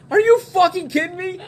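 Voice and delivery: high incredulous squawk; hammed-up disgusted buddy; disgusted friends. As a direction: recoil in disbelief.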